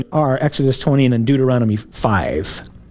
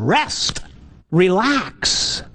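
higher, drawn-out words with a gap between; insistent urging; 4 semitones higher, much slower than usual. Acted. God pounding a stake into our lives, insistent. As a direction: pound each word home, unhurried.

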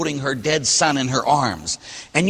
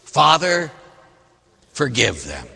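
a hint of Jesus. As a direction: let it fall away to near silence. Jesus voiced from the cross.

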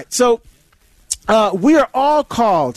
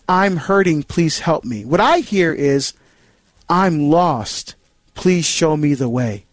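plea for help; 4 semitones lower, slower than usual. Retold or imitated.

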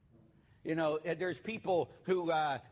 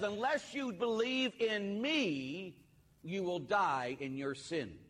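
slow, high, grave pronouncement; preacher lightly voicing Jesus, slow and solemn; 5 semitones higher, slower than usual. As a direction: intone it slowly as the Lord speaking.

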